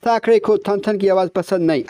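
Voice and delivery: ठन said as थन in a British accent; अंग्रेज़ी लहजे में थन थन; British accent on Hindi. Shown as a demonstration. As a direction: mimic the British mouth missing the retroflex ठ. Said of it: "वो कहेगा ... ऐसे बोलेगा".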